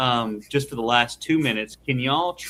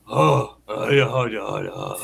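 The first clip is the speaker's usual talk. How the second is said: customer service voice; 4 semitones lower, 3 dB louder, slower than usual. Retold or imitated. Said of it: "she usually goes".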